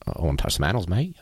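put-on cringey, half-hearted Australian accent; bad Australian accent. Host mocking his own workshop bit, bad Australian accent. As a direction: imitate an Australian, badly. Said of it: "I just did that accent".

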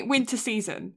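winter with a crisp T in the middle; sounded T. Shown as a demonstration. Friend coaching friend on winter, T clearly sounded. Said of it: "you didn't say the T".

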